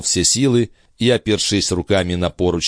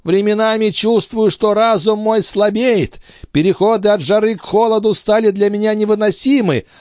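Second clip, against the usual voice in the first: put-on high, strained old man's voice; old master's voice; 11 semitones higher than usual. A narrator's reading. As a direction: play the frail, urgent old alchemist. Old alchemist Althotas speaking.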